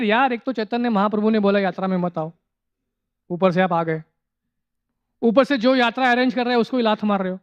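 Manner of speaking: rapid, exasperated grumble; fast irritated Hindi muttering; irritated complaint. Retold or imitated. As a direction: rattle it off in annoyance.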